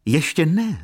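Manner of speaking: high, loud cry to stop him; exclaiming. A narrator's reading. Lady cries out to stop Jan Maria leaving, loud. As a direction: call out to hold him back.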